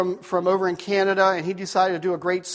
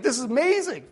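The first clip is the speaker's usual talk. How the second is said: amazed crowd; 5 semitones higher than usual. Retold or imitated. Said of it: "they're just like".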